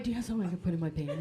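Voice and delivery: fast hushed whisper asking for a pad. Retold or imitated. Asking a friend for a pad, quick hushed whisper. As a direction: ask for a pad under your breath, quick. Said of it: "whispering for a pad".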